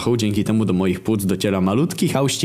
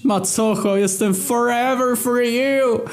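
wished-for shout; 13 semitones higher, slower than usual. Pretend. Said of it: "Chciałbym krzyknąć".

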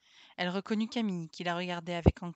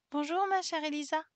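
salut d'enfant ému; 7 semitones higher than usual. A narrator's reading. Les enfants saluent Élisa.

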